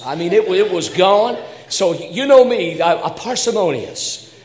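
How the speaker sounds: loud, high, building comic alarm; excited storytelling. Acted. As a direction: tell it like a tall tale, worked up. Excited comic retelling of storm.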